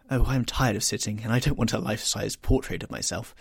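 a youth who is bored of sitting; lightly voiced petulant lad; petulant young Dorian.

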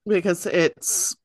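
hiccuping mid-sentence; speaking through hiccups. Real, not acted. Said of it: "I have the hiccups".

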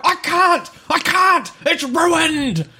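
high-pitched hammed-up wail; mock despairing protest. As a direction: imitate a distraught woman wailing back. Acted quarrel, other woman's desperate reply.

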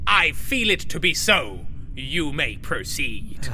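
regal decree. Acted.

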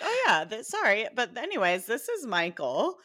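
high, offhand mock introduction; imitating Branson. Podcaster imitates Branson introducing naked Michael, high casual mock voice. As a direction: toss off the apology like it's nothing. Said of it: "He's just like".

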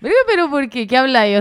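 demonstrating Maracaibo speech; light Maracucho lilt; borrowed Maracucho accent. Shown as a demonstration. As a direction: slip into a Zulia accent. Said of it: "sí se me pega más como que".

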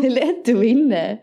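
slowed Gotland dialect attempt; Gotland accent. Retrying the Keno line for co-host, Gotland accent. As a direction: try Gotland vowels, slowly. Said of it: "det är gotländska".

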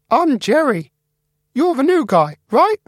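very high, squeaky, eager mouse; Jerry the mouse. Acted. Computer mouse Jerry greeting the new guy, high and squeaky. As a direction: squeak it out friendly.

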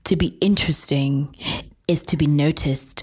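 dramatic reading. Acted.

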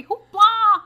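shrieked cartoon yell, high and loud; screaming hoopla. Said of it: "This kid screaming hoopla".

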